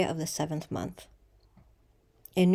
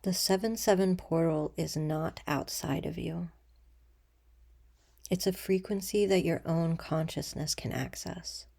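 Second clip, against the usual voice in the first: soft, unhurried meditation voice with long pauses; guided meditation; 4 dB quieter than usual. Acted. Leader guiding listeners to breathe and imagine a threshold, calm meditation voice. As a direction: ease them gently into stillness, letting sentence ends fall away.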